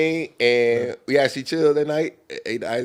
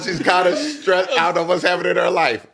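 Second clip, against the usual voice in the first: laughing; 5 semitones higher than usual. Real, not acted. Telling the story, laughing.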